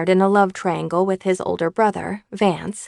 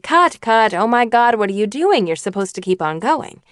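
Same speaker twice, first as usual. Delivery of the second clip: exasperated director; 3 semitones higher, 3 dB louder than usual. Retold or imitated. Director halts the scene in disbelief at the actor. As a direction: stop the take in alarm.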